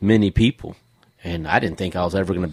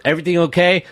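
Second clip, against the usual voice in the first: imitating the daughter; 10 semitones higher, 3 dB louder, faster than usual. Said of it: "she goes".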